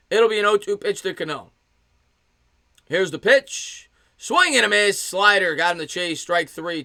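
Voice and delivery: baseball announcer building to the swing; lifted sportscaster strikeout call; live play-by-play. Real, not acted. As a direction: hang on the pitch, then punch the miss.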